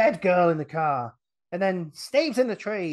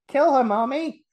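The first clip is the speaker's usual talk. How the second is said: put-on child's voice urging; 10 semitones higher, 7 dB louder than usual. Voicing the child in her head.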